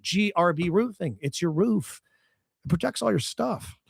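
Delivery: host-read radio ad pitch. Acted. Host pitches a roofing sponsor to listeners, ad read. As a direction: sell it in an emphatic, measured announcer delivery.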